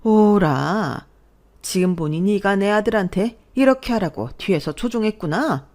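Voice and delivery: corner the daughter-in-law; menacing realization. Acted. Mother-in-law turns on daughter-in-law. (노려보며 비꼬는 시어머니)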